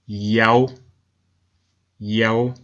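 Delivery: "Yao" sounded out as YOW, unhurried; Yao pronounced YOW. Shown as a demonstration. Narrator reads the inscription aloud, Yao pronounced YOW. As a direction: say "Yao" as one drawn syllable, rhyming with "how". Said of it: "we can see the inscription here".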